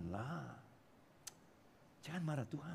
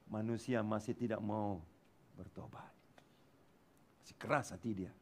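low, much softer, fading to a breath on "bertobat"; hushed sorrow; 8 semitones lower, 8 dB quieter than usual. Real, not acted. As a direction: drop the voice to grieve mankind. Sorrowful drop after climax.

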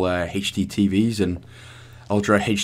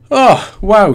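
surprised; 10 semitones higher, 7 dB louder than usual. Real, not acted. Chapter completion reaction.

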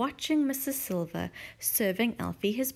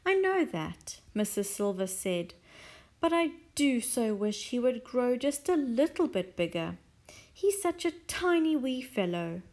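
wistful Mrs Silver; 3 semitones higher than usual. Acted.

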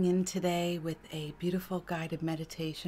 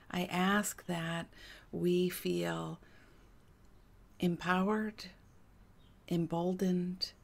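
guided prayer meditation. Real, not acted. Healer opens a prayer for a listening friend, guided meditation. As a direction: set an intention, unhurried and deliberate.

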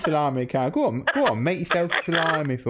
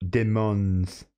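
French pronunciation; 3 semitones lower than usual. Shown as a demonstration. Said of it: "say his name in France".

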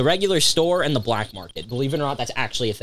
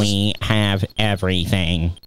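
slow, measured shopkeeper voice; slowly voiced game merchant; 3 semitones lower, slower than usual. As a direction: draw it out word by word as a shopkeeper.

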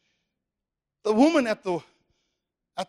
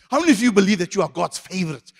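quicker, more forceful question; emphatic re-asking; 4 dB louder, faster than usual. Real, not acted. Preacher asking after only some responded, emphatic and urging. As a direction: push the congregation to respond.

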